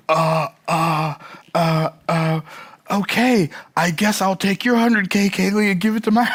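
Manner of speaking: fumbling Australian reply; flustered Australian voice; stammering Australian accent. Retold or imitated. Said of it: "my Australian accent's not that good".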